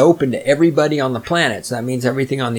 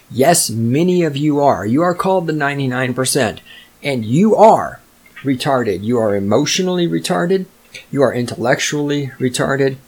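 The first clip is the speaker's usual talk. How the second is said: usual speaking voice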